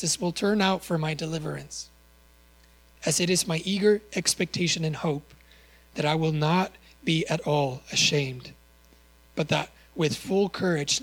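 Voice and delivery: measured, emphatic Bible reading aloud; deliberate phrasing with pauses between clauses; Scripture reading. Acted. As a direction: read the verse out to the congregation with conviction. Reads the Scripture verses aloud.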